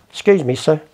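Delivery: politely acted "excuse me, sir"; respectful. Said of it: "he's showing respect".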